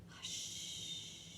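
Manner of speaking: soft unvoiced hush; quiet whispered shush. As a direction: hush like a sleepy old lady. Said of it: "the old lady whispering".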